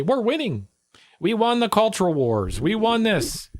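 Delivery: lilting, swooping mock boast; mock right-winger boast. Voicing what the right will say, mock boastful. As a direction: imitate smug partisans with a rising swoop. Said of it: "The right will say".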